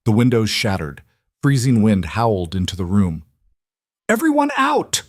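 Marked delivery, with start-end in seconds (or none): 4.1-5.0 roar. A narrator's reading. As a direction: roar the command over chaos. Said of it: "Corvin roared".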